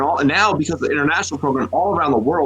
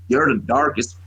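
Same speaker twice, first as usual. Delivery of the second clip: put-on Florida swamp accent; 5 semitones lower than usual. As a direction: imitate a country recruit's Florida accent. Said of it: "most fucking swamp-ass Florida accent".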